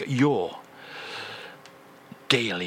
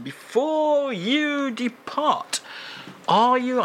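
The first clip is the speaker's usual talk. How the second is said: high squeal; 11 semitones higher, slower than usual. Acted. Host squeals question.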